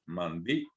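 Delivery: "Mandió" split before the final stressed ó; pausa glotal. Shown as a demonstration. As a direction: cut the voice briefly inside "Mandió", then a separate ó. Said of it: "separamos la voz". («Mandió» con la voz cortada antes de la ó)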